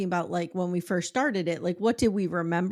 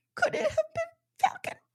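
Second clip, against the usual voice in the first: very high, fake, tearful, quavering weepy voice. Retelling a news scene where a mother fake cries: imitating fake crying. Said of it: "Mayomi fake cries".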